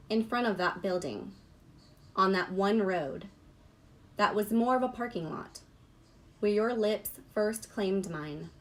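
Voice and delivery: measured poem recital with long pauses; unhurried poetry-reading voice. Real, not acted. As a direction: read it line by line, letting each phrase settle.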